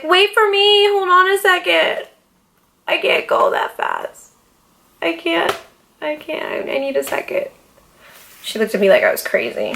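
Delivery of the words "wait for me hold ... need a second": high panicked call to her friend; panicky plea. Retold or imitated. Calling after Winter on the escalator, panicked plea. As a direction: beg her to wait, scared of the escalator. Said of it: "and I was like".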